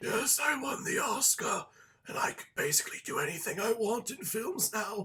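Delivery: put-on scratchy, rasping voice throughout. Imitating the actor boasting about winning the Oscar: Eddie Redmayne raspy voice. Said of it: "even doing this raspy voice that makes no sense".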